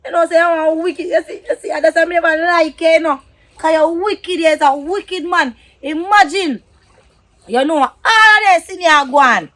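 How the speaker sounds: angry scolding. Acted. Partner berating a wicked man, angry and heated.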